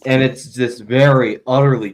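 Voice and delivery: chewing while talking; talking through a mouthful; mouth full. Real, not acted. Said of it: "sorry, I'm chewing right now".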